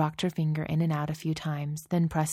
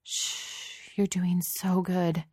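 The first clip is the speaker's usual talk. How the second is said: calm her down slowly and tenderly; soothing; 3 semitones higher, much slower than usual. Acted.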